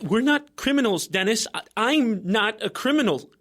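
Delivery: scared protest. Acted.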